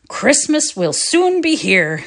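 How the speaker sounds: slow, lilting sing-song; pleasant sing-song. Acted. Father chatting at tea with the boys, sing-song. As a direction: lilt it pleasantly. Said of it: "in a pleasant sing-song voice".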